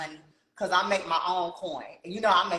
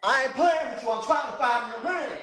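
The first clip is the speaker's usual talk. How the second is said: deep voice; 4 semitones higher than usual. Pretend. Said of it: "You done changed the voice".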